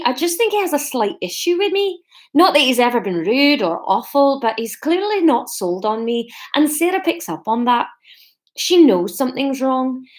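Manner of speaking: lightly put-on Scottish accent; amateur reader's Scottish accent; attempted Scottish accent. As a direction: have a wobbly go at a Scottish accent. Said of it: "distinguishable from the Scottish accent".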